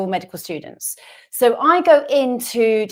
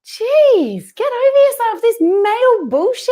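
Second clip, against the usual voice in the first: mock outrage; 11 semitones higher, 4 dB louder than usual. Real, not acted. Mock outrage at nurse question.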